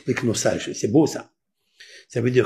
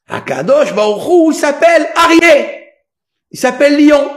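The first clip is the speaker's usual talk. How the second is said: loud, raised preaching that climbs high; forceful preaching; 7 semitones higher, 7 dB louder than usual. Real, not acted. Preacher revealing the celestial lion to the congregation, loud and fervent. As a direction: build to a ringing, high proclamation.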